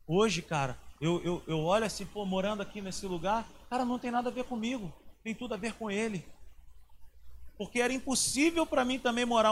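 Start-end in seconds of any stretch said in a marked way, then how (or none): none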